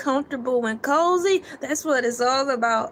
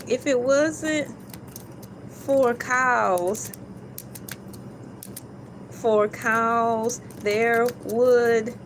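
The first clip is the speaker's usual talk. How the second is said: slow, spelled-out emphasis; much slower than usual. Shown as a demonstration. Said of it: "B U R B U R G E R K".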